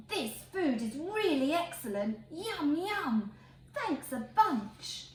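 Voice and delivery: a pig savouring excellent food, relishing; happy eating pig. Acted. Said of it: "things a pig might say".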